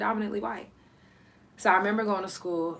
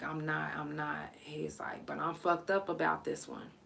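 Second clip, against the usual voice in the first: hushed, voiceless whisper of a shaken friend; retold whisper; 3 semitones lower, 8 dB quieter than usual. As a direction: breathe it out secretly so nobody hears.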